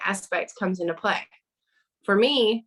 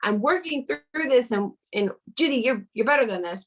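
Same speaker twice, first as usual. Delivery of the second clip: higher, anxious inner voice; panicky self-talk; 4 semitones higher than usual. Retold or imitated. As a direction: talk yourself down, a bit panicked. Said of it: "kind of panicking 'cause I'm like".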